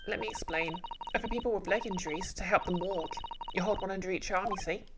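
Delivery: lady insisting she is family; prim young lady. Acted. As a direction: stand on your dignity, politely. Iris explains.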